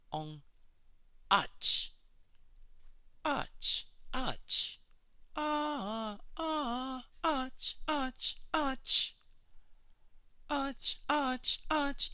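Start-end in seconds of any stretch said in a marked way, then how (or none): 1.3-12.1 "arch" spat out short and high with a hissing end; clipped guttural chant syllable; quick harsh sound. Shown as a demonstration. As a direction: bark "Ach" quick and sharp, high pitched. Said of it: "It's a quick sound".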